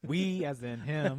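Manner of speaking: laughing through the words. Real, not acted. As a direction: chuckle the words out slowly. Teasing while laughing.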